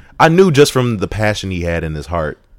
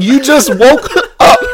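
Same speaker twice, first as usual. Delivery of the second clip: laughing through the words, slowed; giggling tease, much higher; amused disbelief through laughter; 11 dB louder, slower than usual. Retold or imitated. Teasing a friend who dozed off.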